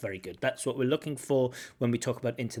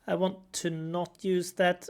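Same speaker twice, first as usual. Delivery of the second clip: imitating; 6 semitones higher, slower than usual. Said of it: "the most natural way".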